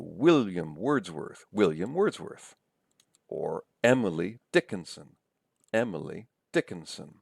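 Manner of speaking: WILL-iam WORDS-worth, EM-ily DICK-inson; stress on first syllables. Shown as a demonstration. Lecturer shows stress in names, first syllables of William Wordsworth, Emily Dickinson. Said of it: "Stresses on the first syllables".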